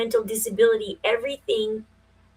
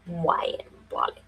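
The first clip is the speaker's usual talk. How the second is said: whispered name practice; 3 semitones lower, 5 dB quieter than usual. Shown as a demonstration. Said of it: "I didn't inherit the Russian accent".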